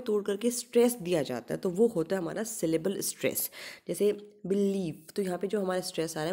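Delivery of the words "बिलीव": बिलीव with लीव stressed; stress on second syllable. Shown as a demonstration. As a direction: lean on लीव in बिलीव, not on बि. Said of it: "लीव के ऊपर stress आ रहा है".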